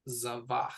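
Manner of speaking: Zavach, "za" then "vach"; Hebrew word said slowly. Shown as a demonstration. Teacher modelling Zavach for the learner, slow and clear. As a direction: sound out Zavach clearly for a student. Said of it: "first a kamatz and then a patach".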